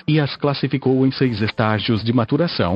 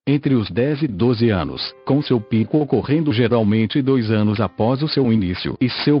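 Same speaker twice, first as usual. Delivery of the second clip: robotic text-to-speech voice. Real, not acted. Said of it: "falo através desta voz sintetizada".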